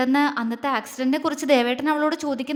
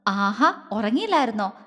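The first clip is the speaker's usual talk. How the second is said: lightly tender, slightly lower question; affectionate; 3 semitones lower than usual. Acted. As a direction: ask her gently, with affection. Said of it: "അഗ്നി സ്നേഹത്തോടെ ചോദിച്ചു".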